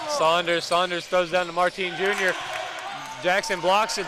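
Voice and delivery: energetic call, pitch climbing; live play-by-play. Real, not acted. Commentator follows a block and putback, energetic play-by-play. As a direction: track each move with mounting energy.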